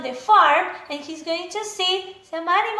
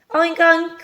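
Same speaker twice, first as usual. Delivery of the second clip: mock oink; 5 dB louder than usual. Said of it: "It must be a pig".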